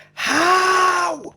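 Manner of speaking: "how" yelled very high, loud and stretched out. Describing what comes out of her mouth after missing shots, shouting how. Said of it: "but really loudly".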